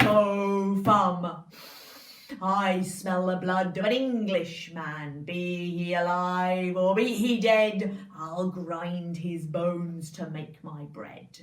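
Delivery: booming giant; loud, slow booming giant. Acted. Giant's chant in told story.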